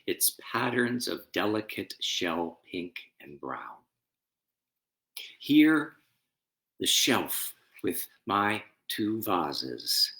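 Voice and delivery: slow, loud, grave poem recital; poem reading. Acted. Pastor reading a war elegy to the congregation, solemn and slow. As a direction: read each image slowly, letting it land.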